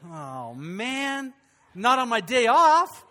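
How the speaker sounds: loud groaning protest, high and slow; mock groan. To the woman asking for pointers, a loud mock groan. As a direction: moan it like a weary pastor asked to work. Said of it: "groans at request for pointers".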